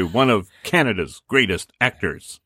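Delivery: lightly voiced William Shatner delivery; a hint of Shatner's dramatic pauses; Shatner impression. Shown as a demonstration. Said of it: "No, you have to say".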